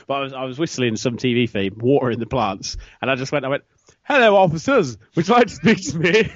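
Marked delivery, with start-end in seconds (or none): 4.0-6.3 loud, put-on greeting to police; lightly hammed-up hail to the officers; in character. Resident greeting police parked outside, in a put-on voice. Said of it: "so in character at that point".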